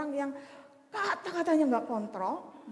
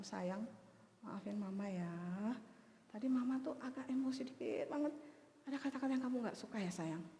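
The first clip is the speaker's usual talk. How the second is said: tender apology; 2 semitones lower, 8 dB quieter than usual. Retold or imitated. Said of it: "saya peluk dan saya katakan".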